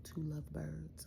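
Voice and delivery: dad's romantic line, slow and hushed; soft dreamy quote. Retold or imitated. Dad telling his daughter about lovebirds, slow and hushed. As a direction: breathe it out slowly like a sweet secret.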